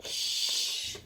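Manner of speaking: long unvoiced "Sh"; sh sound. Shown as a demonstration. Teacher showing what S and H make, drawn-out "Sh". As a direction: hold "Sh" as a pure hush. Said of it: "the S and the H together".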